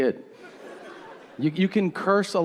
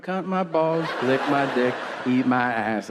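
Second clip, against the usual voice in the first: "count my balls, lick my dick, eat my ass" in an even beat; rhythmic cursing. Shown as a demonstration. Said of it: "you gotta put rhythm to it".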